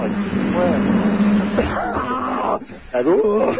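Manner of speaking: squeaky mock falsetto ouais; high put-on voice. Prank radio caller acting.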